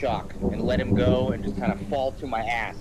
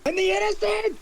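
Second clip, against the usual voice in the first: raised, accusing shout of protest; angry retort. Acted. To Clevis over the dead, angry. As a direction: throw it back at him.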